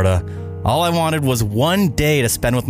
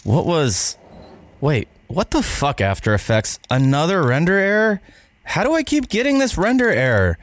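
frustrated rant; 4 semitones higher, slower than usual. Acted. Editor freaking out over error.

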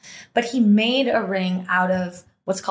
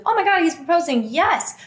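movie heroine gasp; 8 semitones higher than usual. Pretend. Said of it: "if my life were a movie".

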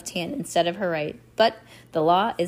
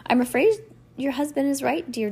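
higher, mildly sorrowful voice; sad; 6 semitones higher than usual. A narrator's reading. Judge giving the orphan bad news, sadly. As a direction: break bad news with a touch of sadness. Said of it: "Strauss said sadly".

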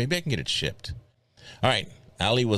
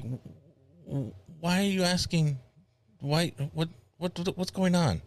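baffled; 8 semitones higher than usual. Retold or imitated. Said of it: "I'm like".

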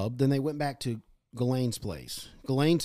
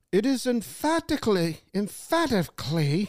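mock-regal pronouncement that stalls on "emphatically"; palace statement voice; 8 semitones higher than usual. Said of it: "That's, that's really good".

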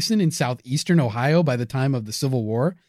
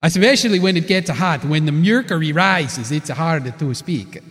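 put-on Italian accent. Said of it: "thick Italian accent".

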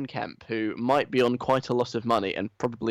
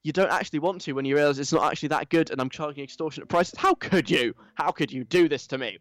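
entitled whiny influencer; 2 semitones higher than usual. Retold or imitated. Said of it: "the sort of very entitled, whiny".

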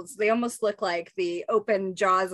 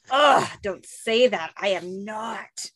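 put-on grossed-out teen; much slower than usual. Raph grossed out.

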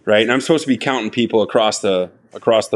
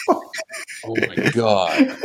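mock panic; 4 dB quieter, much slower than usual. Panicked realization retold.

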